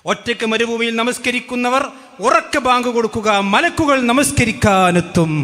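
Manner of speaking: mock proclamation. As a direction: stretch the endings like a mock proclamation. Mock parody of opponents' written claim.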